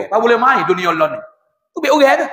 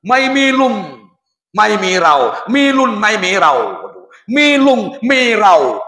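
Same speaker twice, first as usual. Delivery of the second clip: imitated Thai speech; much slower than usual. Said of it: "Ketai pun lagu tu".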